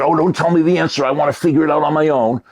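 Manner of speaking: fascinated. Acted. Puzzle fan refusing the answer from the teacher, fascinated. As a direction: rush it out, keen to solve it alone. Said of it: "You're fascinated".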